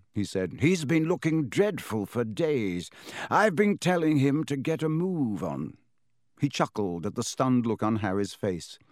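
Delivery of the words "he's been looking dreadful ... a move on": put-on amused old headmaster; lightly voiced wise wizard. Dumbledore voiced.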